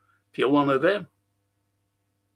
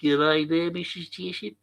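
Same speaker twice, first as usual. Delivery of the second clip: lightly put-on Australian greeting; a hint of playful Australian accent; mock Australian accent; 3 dB quieter than usual. Greeting viewers as an Australian would, mock Australian accent. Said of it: "if you're an Australian".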